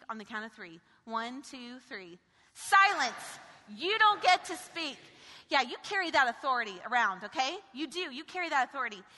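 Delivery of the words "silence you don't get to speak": louder, firm call of the command. Shown as a demonstration. Preacher leading the church in the rebuke, firm loud command. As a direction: declare it with full authority. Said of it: "Can I just hear that from y'all".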